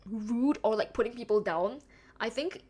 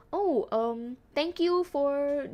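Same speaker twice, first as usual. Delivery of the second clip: corporate speech; 2 semitones higher, much slower than usual. Retold or imitated. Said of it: "the corporate speech".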